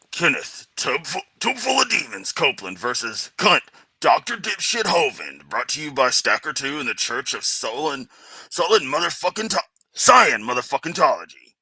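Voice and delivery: muffled announcer through cupped hand; hands cupped over mic. Pretend. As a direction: cup your hand over your mouth and announce. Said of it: "I cupped my hand over my mouth".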